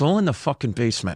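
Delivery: forced out through gritted, clenched teeth. Retelling what a woman told him, said through clenched teeth. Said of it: "she said it like that through her teeth".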